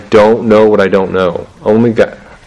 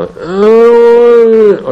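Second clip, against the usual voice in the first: startled dad; 5 dB louder than usual. Retold or imitated. Dad startled by sleepwalking kids.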